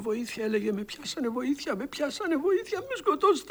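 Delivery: nightmare cries building to a high scream; begging for help, rising in terror; talking in his sleep. Retold or imitated. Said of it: "μίλαγε στον ύπνο του". (κραυγές τρόμου που δυναμώνουν)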